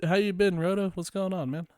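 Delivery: high, loud goofy greeting; high cartoon voice. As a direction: chirp it like a cartoon dude. Voicing character greeting again.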